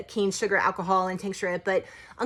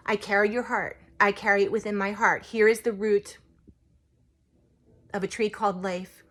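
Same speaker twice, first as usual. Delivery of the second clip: measured recital in short phrases with pauses; poem recitation. Acted. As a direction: lightly recite a beloved poem from memory.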